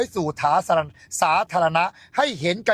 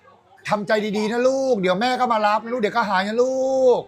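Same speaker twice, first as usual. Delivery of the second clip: cooing owner; 2 semitones higher than usual. Pretend. Owner coos to pet.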